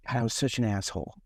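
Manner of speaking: low-pitched, rueful self-reproach; retold sinking realization, said low; mildly ashamed, voice dropped; regretful.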